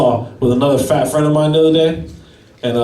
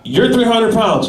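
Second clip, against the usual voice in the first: slow and higher, half-disbelieving clerk; stunned clerk; 6 semitones higher, slower than usual. Retold or imitated. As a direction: spell it out in shock. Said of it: "He goes".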